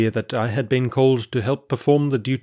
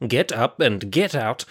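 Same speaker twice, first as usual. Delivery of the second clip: impatient repeat. Acted. Guard repeats his order to the stalling prisoner, fed up and slow. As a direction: hammer the order home a second time.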